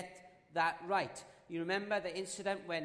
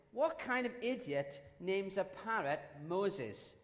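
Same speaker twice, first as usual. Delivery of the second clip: scornful; slower than usual. Acted. Burglar mocks parrot's name.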